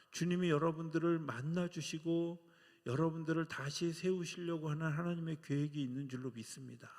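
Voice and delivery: ordinary talk, nothing marked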